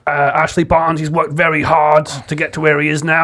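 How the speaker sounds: a light, gravelly-leaning manager voice; Sean Dyche impression. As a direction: talk tactics like a gruff Premier League boss. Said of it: "Make your voice a bit gravelly for Sean Dyche".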